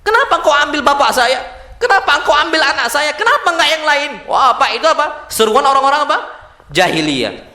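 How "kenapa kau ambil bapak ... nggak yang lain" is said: mild mock wail of protest to God; understated imitation of an aggrieved lament; acted lamenting cry. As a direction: plead as if imitating a bereaved mourner. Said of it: "menyuruh dengan seruan-seruan jahiliyah".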